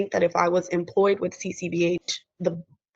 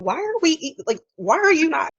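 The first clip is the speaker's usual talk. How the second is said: much higher, urgent mock concern; imitating boss; 8 semitones higher than usual. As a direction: play the worried supervisor. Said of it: "she's like".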